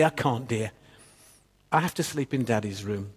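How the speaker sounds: gentle, soothing bedtime answer; tender. Acted. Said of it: "she says to him tenderly".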